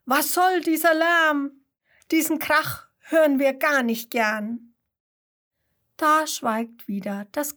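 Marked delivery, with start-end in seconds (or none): 0.1-4.8 higher, louder complaint; annoyed calling bees. A narrator's reading. Bees scolding the kangaroo for the noise, louder. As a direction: call out like cross little bees. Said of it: "Ein Schwarm Bienen ruft".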